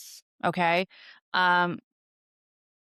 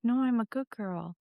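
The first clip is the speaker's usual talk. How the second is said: lightly voiced small child, raised pitch; a hint of a five-year-old insisting she's good; mock child's protest; little girl pleading; 4 semitones higher than usual. Child pleading in retold story.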